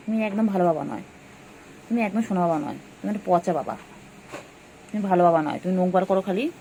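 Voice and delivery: a hint of a cross parent; mock scolding. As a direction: pretend to scold the little one, half-joking.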